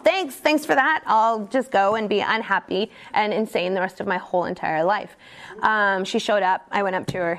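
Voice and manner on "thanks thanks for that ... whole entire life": mock-cheerful sarcasm, then trailing to deadpan; sarcastic resignation. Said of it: "The whole time I was like".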